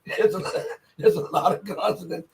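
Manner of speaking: lot of consonants said through a laugh. Real, not acted. To viewers, laughing at the hard Georgian names. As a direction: chuckle through the repeat. Repeats the line while laughing.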